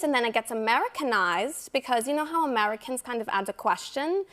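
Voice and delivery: Anna Delvey accent. Shown as a demonstration. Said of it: "this is more of an Anna Delvey accent".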